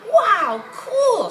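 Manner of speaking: put-on high, loud girlish delight; excited. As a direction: squeal it up high like a delighted kid. Charlotte thrilled by invitation.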